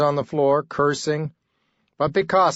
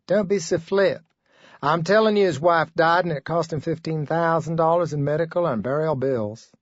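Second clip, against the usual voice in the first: lightly raised, insistent woman; girlfriend's voice; 4 semitones higher than usual. Acted. Clerk insisting to her boyfriend, lightly higher earnest voice.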